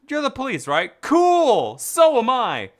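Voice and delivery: high, bright goofy cop voice. Acted. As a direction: play it like an eager goof. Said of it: "I gave him that accent".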